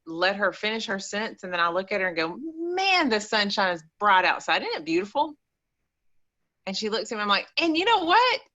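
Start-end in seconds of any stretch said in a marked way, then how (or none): 2.4-5.3 cheerful redirection. Retold or imitated. Cheerfully interrupting mother's negative talk. 7.6-8.4 much higher, upbeat attention-grabber; sudden perky interruption; cheerful redirection. Retold or imitated. Cheerfully distracting mother in retold exchange.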